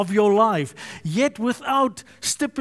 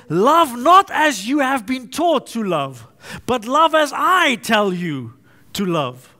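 louder, "not" and "I" punched, the second line slower; preacher voicing Jesus, louder and commanding; authoritative command; 5 dB louder than usual. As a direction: hand down the command with full authority. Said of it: "Very emphatic, very authoritative".

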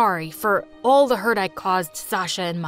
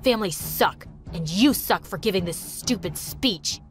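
shouting; 5 semitones lower than usual. Acted. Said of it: "shouted at the top of his voice".

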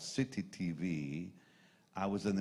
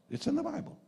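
incredulous. Retold or imitated. Disbelief at the scripture.

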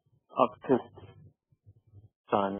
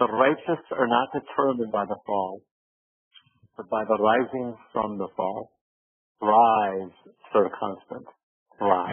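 a light, slightly lowered Irish lilt, barely put on; a half-hearted Irish accent, slow and solemn; understated Scottish-Irish brogue quoting a friend; 2 semitones lower, slower than usual. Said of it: "I have to do it in somewhat of a, an Irish accent".

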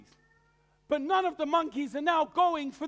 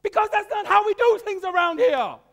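a raised, stern refusal, higher and louder; stern church elder; 6 semitones higher, 7 dB louder than usual. Acted. Church elder forbids Sabbath school after worship, stern and loud. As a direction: slap down the idea like an old deacon. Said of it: "Why not?".

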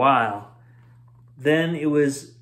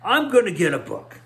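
a slightly higher squeak; 4 semitones higher, 3 dB louder, faster than usual. Acted. Roy squeaking his reply to Jarvis. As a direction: squeak it out nervously. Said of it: "Jarvis squeaked".

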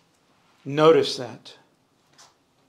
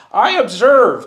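laughing; 7 semitones higher, 7 dB louder, slower than usual. Real, not acted. Laughs while answering.

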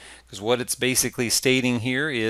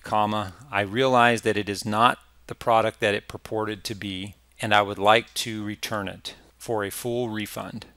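dictating. Shown as a demonstration. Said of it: "and start dictating".

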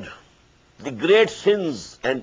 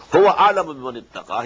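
melodic, measured tajweed chant; Quran recitation; much faster than usual. Acted. Teacher recites the verse to his students, chanted tajweed. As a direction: intone the verse as in prayer.

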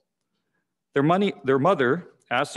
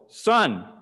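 higher, a touch louder mock bellow; 3 semitones higher, 3 dB louder than usual. Exasperated pastor to the silent boy, higher mock bellow. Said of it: "and bellowed".

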